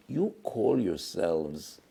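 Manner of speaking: slow, grave divine questioning; a hint of the heavenly court questioning the students; heavenly rebuke. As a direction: let each word land like a judgment. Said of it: "they were asked by HaKadosh Baruch Hu".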